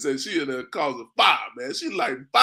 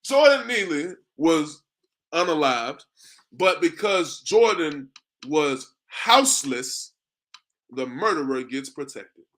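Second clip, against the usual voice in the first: reading her post; slower than usual. Retold or imitated. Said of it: "That's what she says".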